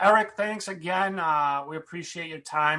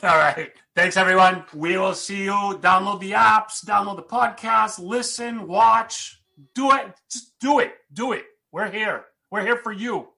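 hyped sign-off; 5 semitones higher, 5 dB louder than usual. Real, not acted. Excited hyped sign-off to listeners.

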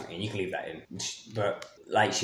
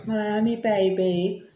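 excited; 12 semitones higher, 3 dB louder, much slower than usual. Real, not acted. Excited holiday plans with Terry.

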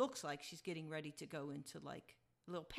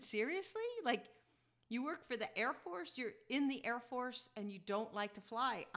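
can't believe it, half laughing; mock amazed at an Air Force nervous flyer; amused disbelief; 4 semitones higher, 3 dB louder than usual. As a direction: pitch jumps high on seriously, incredulous.

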